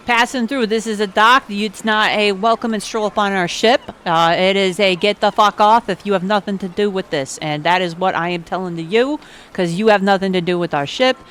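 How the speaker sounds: loud, gruff Brooklyn tough; gruff dock guard. Acted. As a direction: shoo him off the ship.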